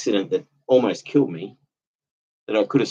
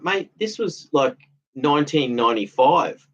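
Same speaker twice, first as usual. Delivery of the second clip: exasperated retort; 5 semitones higher than usual. Retold or imitated. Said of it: "I was like".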